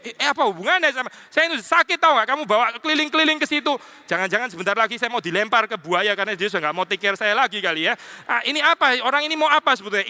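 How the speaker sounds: high, fast indignant protest; a high, baffled complaint; confused, complaining patient. Acted. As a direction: sputter at being dragged around while sick. Voicing the bewildered sick Job.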